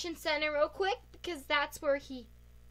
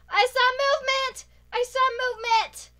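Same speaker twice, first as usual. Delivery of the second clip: higher, louder excited call; excited shout; 7 semitones higher, 6 dB louder than usual. Real, not acted. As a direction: yell it out, thrilled. Spotting a player in hide-and-seek.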